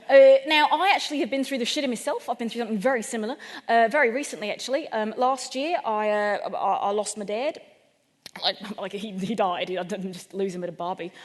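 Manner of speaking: lightly hammed Australian builder; comic Australian accent, conversational. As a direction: confide in a put-on Australian accent. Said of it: "in a really clear-cut Australian accent".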